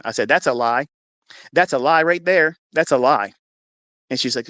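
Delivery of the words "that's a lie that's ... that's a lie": firm, insistent denial; retold indignant contradiction; defiant rebuttal. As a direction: reject it outright, hammering each repeat. Husband contradicting the nurse.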